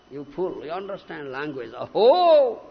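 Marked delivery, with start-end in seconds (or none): 1.8-2.6 exclamation of wonder. Shown as a demonstration. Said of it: "Two words, two letters".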